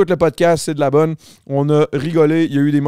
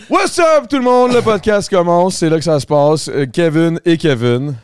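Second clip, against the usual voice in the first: hyped host intro. Acted. Host restarting the podcast for listeners, hype announcer. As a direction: kick off the show like an announcer.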